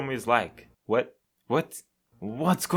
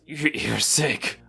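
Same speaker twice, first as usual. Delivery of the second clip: growl through teeth; slower than usual. Acted. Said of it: "Through gritted teeth, he growls".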